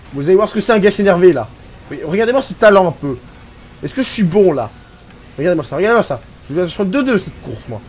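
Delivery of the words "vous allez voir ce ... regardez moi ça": mock boasting. Real, not acted. Boasting after getting angry.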